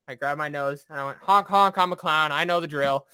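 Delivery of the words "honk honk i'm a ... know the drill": higher, goofy clown voice fading down; silly clown. Retold or imitated. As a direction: play the clown for the officer. Recruit playing the clown.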